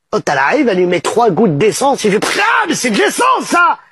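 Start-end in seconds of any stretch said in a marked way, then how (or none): 2.4-3.8 higher, shouted protest; outraged cry. Acted. Patient cries out at the doctor after tasting petrol. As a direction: spit out the shock of tasting petrol.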